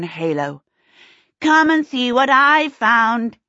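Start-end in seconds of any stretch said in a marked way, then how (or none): 1.4-3.4 put-on high, slow, gleeful child's call. A narrator's reading. Laughing runaway in the doorway to his pursuers, gleeful. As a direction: sing out with glee, drawing it out. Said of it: "he said gleefully".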